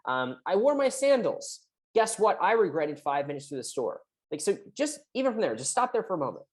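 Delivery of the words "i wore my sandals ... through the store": reading sarcastically. Retold or imitated. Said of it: "notice the sarcasm".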